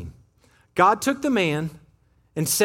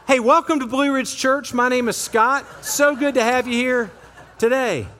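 louder, laughing mock welcome; 3 semitones higher, 3 dB louder than usual. Real, not acted. Pastor laughing, welcoming people who just woke up. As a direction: greet sleepy listeners with a grin. Joking welcome to waking crowd.

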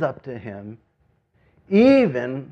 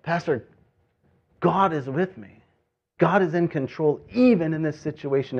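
put-on New York accent; 4 semitones higher than usual. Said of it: "she's got that cool New York accent".

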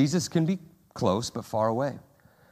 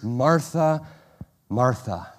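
intimate; slower than usual. Retold or imitated. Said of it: "it was a sign of intimacy".

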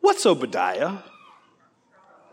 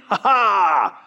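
mocking taunt; 2 semitones lower than usual. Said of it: "and they're saying".

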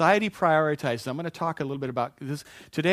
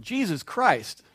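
louder, higher, drawn-out exclamation; retold shout; 5 semitones higher, 5 dB louder, much slower than usual. Small boy blurting a word before his parents, retold shout. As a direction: shout it out slowly as an oath. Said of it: "I just shouted out".

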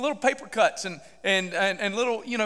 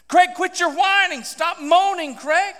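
raised, higher-pitched scolding; stern rebuke; 7 semitones higher, 4 dB louder, slower than usual. Retold or imitated. The Lord telling Craig off, stern rebuke. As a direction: scold him like a fed-up father. God's rebuke, acted by preacher.

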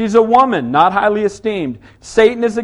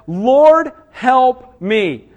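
raised, pleading cry of Lord, help me; loud pleading cry; 3 semitones higher, 5 dB louder, much slower than usual. Acted. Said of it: "she cried out and said".

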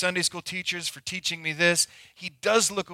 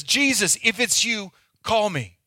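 Peter calling out; 3 semitones higher than usual. Acted. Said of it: "Peter says".

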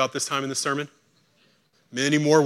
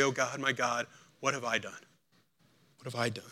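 soft, sinking words of remorse; quiet anguish; 4 semitones lower, 10 dB quieter than usual. Acted. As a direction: let it fall away into a hushed confession. Repeated anguished confession.

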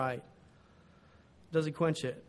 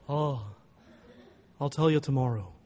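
put-on unhurried old professor, pausing after "Oh"; 2 semitones lower than usual. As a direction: lightly imitate a ponderous teacher. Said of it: "big, slow voice".

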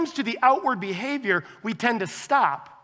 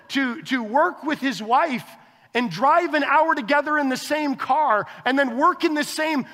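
disgusted disbelief; 5 semitones higher than usual. Retold or imitated. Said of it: "I look back at that moment and I think".

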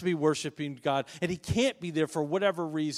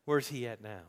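mocking; 3 semitones lower than usual. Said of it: "were mocking him and saying".

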